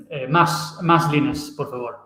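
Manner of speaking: put-on Spanish words in a Spanish accent. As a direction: speak like a Spaniard. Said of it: "Do it in a Spanish accent from now on".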